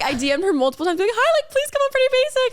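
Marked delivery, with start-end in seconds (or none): 1.1-2.5 very high, sweet begging voice; mock pleading. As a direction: plead in a squeaky put-on voice. Acting out her pleading messages.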